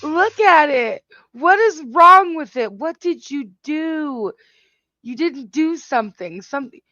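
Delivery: stunned, slowed-down disbelief at the turkey; looking at a raw turkey, stunned and incredulous. Real, not acted.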